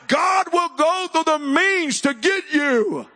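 loud, high, driving sermon delivery; full-force preaching. Real, not acted. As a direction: build to a shouted promise from the pulpit.

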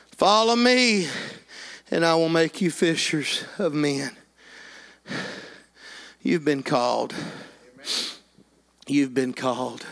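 softly appeal, letting each phrase settle; altar call. Real, not acted. Preacher calling parents forward to the piano, hushed appeal.

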